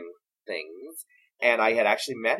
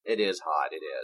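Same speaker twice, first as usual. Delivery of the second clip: Suzanne Pleshette voice; 4 semitones lower than usual. Retold or imitated. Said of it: "my Suzanne Pleshette impression".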